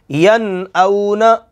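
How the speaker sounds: slow chant of यन औना, no nasal hold; teacher models tajweed; slow recitation. Shown as a demonstration. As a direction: recite slowly, no ghunna. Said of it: "अब मैं रुक नहीं रहा".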